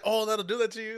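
high, loud cooing voice; cooing sympathy. Retold or imitated. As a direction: fuss over someone tired. Imitating the TikTok reaction.

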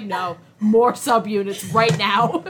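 mock stern boss. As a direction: lay down the order flatly and slowly. Voicing SM staff refusing Mark.

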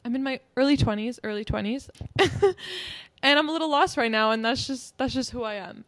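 loud, upbeat shrug at being lost; cheerful self-acceptance. Retold or imitated. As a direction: own it with a laugh. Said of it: "be like".

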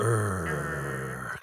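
low, throaty zombie groan. Acted. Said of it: "God, you're awful".

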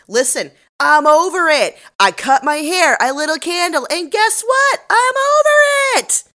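loud, high, building to a drawn-out shriek; hammed-up rant climbing to a yell; fed-up diatribe. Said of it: "delivers this entire diatribe".

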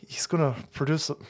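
breathy aside, barely voiced; whisper. Real, not acted. Whispering to viewers about the actor's movie. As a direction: drop to a whisper mid-rant. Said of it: "whispered aside".

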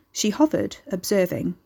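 plain reading voice

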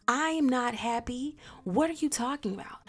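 snapping back at a cheating husband in a retold fight; retold angry outburst.

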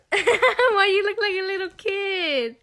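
high laughing question. Real, not acted. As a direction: laugh through it. Laughing at friend on camera.

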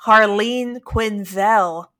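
slow, careful HARLEEN QUINZEL; corrected name. Shown as a demonstration. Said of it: "correcting me. It's not".

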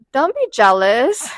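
slow, bored deadpan delivery; Aubrey Plaza deadpan; deadpan impression. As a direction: say it slowly, unimpressed. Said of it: "she's like".

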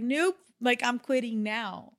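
emphatic refusal. Retold or imitated. Insisting she quits today.

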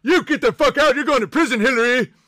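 hammed-up tough guy yelling at Hillary; mock yelling at Hillary. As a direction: bark it like a showman. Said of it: "You're like".

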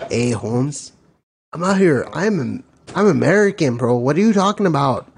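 lightly put-on Mexican accent. Homie insisting he is American, light Mexican accent. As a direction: protest in a slight Mexican accent. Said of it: "That was more Mexican".

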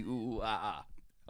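understated mock monkey noises; monkey hooting. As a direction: hoot softly like a deadpan ape. Monkey noises in joke slogan.

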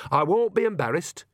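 put-on airily unbothered old woman; dismissive. A narrator's reading. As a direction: brush it aside without shame. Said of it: "said Nanny dismissively".

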